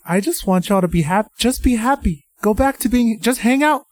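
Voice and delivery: high, pleading whine at the characters. Retold or imitated. Fan pleading with TV characters, high and whiny. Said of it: "I'm like".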